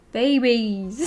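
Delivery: a laughing attempt at a British accent. Streamer attempts a British accent for chat, laughing. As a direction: try a British accent and crack up. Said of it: "How do British people talk?".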